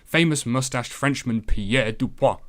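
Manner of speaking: slow, light mock French accent; playful French accent on a name. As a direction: savour the name in a hint of French. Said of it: "fun to say in a French accent".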